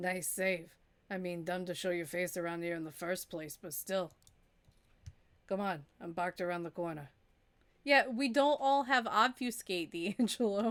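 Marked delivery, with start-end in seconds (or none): 0.0-7.1 low, quick, gravelly character voice. Narrator voices the man who pulled you into the shadows: gravelly voice. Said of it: "the gravelly voice sure does".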